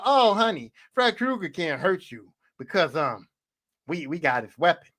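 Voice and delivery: lightly voiced mom, soothing her down. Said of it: "And then you go".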